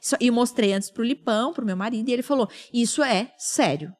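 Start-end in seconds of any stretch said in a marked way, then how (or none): 2.7-3.9 measured, weighty retold verdict; grave, serious. Husband telling his wife this is serious, grave. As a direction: lay it down gravely, pausing between statements.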